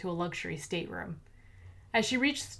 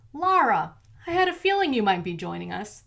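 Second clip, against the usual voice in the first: menacing villain; 3 semitones higher, 6 dB louder than usual. A narrator's reading. Villain greets hero menacingly.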